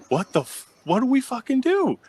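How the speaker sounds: high, loud, panicky swearing; panicked what now. Retold or imitated. Asking his partner what to do, in a high panicky voice. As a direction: blurt it out in a flustered panic.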